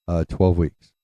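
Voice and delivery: hesitate, then give it evenly and deliberately. Retold or imitated. Dad finally giving mom the news, deliberate. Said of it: "My dad was so deliberate".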